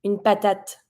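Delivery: "Une patate" ending on a spoken T, silent E; French "patate", pa-tat; final T sounded. Shown as a demonstration. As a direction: finish "Une patate" on a crisp T. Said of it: "you're gonna be pronouncing the final T".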